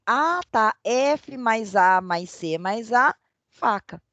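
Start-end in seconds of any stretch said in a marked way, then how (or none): 0.8-3.2 slow, letter by letter; slow spelling out. Shown as a demonstration. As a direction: break the word into its letters. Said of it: "Depois que ela vai vendo que". (soletrando devagar, letra por letra)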